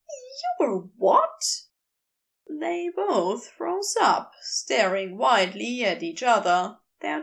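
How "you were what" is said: higher, heated fussy angel voice; Aziraphale, wild. A narrator's reading. Angel ranting at the geologist, high and heated. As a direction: raise the pitch and let him rant.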